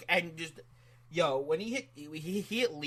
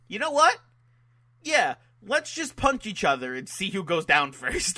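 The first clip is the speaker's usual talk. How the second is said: mock challenge; 4 semitones higher than usual. Voicing wrestlers' sudden mutual decision.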